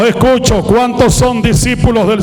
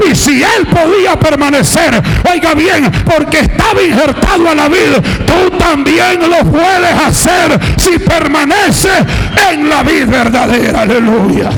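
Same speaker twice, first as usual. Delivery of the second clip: driving, rhythmic sermon climbing in pitch; impassioned pulpit cadence, easing at the close; fiery preaching; 3 semitones higher than usual. Real, not acted. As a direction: pile up each phrase with growing fervor. Preaches at full force.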